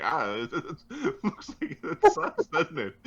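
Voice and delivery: high-pitched cackling taunt; laughing taunt. Acted. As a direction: gloat through loud laughter. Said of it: "he's like".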